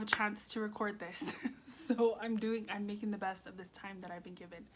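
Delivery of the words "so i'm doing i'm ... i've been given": breathless and hurried; out of breath. Real, not acted. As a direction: talk while catching your breath. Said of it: "And I'm out of breath".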